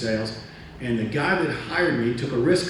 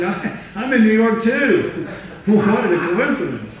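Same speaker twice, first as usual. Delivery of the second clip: slow, laughing through the words; 9 semitones higher, 6 dB louder, slower than usual. Real, not acted. Telling the boss he's in New York too, laughing. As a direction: chuckle at your own setup. Teller laughing at own trick.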